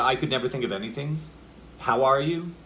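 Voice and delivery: energy held up after "anything" and "you"; suspended energy. Shown as a demonstration. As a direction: leave "anything" and "you" hanging as questions. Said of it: "the energy has to be suspended".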